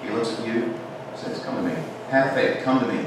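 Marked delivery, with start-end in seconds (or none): 1.4-3.0 soft, gentle invitation from Jesus; quiet, loving summons; tender call. Acted. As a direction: beckon softly.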